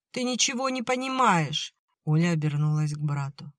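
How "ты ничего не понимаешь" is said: put-on high, upset young girl's voice; a girl close to tears explaining; tearful girl. A narrator's reading. Olya to brother.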